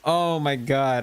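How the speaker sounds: awed excitement. Real, not acted. Rare drop excitement.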